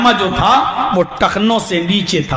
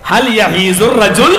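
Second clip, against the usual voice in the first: laughing question. Acted. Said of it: "ہنستے ہوئے کہتا".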